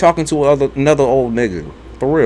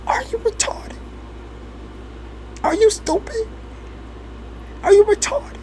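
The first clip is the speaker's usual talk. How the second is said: much higher, mock shrill scold; mock grandma scolding; 8 dB quieter than usual. Grandma scolding the grandchild in a high voice. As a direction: squeak it like a scolding granny. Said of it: "she would say".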